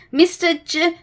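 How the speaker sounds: frightened stutter on J; stammering. Acted. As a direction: stutter his own name in fear. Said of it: "stammered Mister Jelly".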